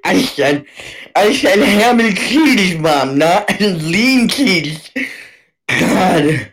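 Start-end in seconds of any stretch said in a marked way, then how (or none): 1.1-4.9 whiny demanding son. Pretend. Slow whiny demand to mom.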